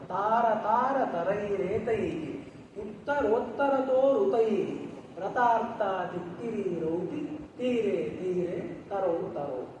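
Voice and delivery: chanted, slowing down toward the close; verse recitation. Acted. Teacher recites the bird verse to students, slowing chant. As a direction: let the birds' calls ring out in rhythm.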